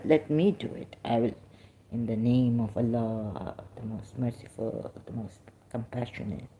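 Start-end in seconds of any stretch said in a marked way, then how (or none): 1.9-6.5 low, measured recitation, softening as it goes; lower, increasingly hushed invocation. Real, not acted. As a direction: recite the sacred formula, trailing down softly. Recites the opening religious formula.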